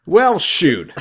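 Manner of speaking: squeaky high cartoon voice; high mock-dismay squeak; silly high voice.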